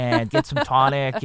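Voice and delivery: quick playful fake Boston accent. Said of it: "I love, like, faking it".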